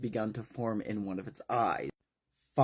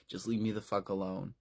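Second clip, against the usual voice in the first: quiet, upset; 4 semitones lower, 7 dB quieter, faster than usual. Acted. Tim after crying, quietly.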